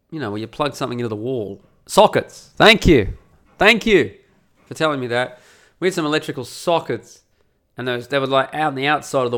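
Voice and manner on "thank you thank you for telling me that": emphatic thanks. Real, not acted. Relieved someone supplied the missing word.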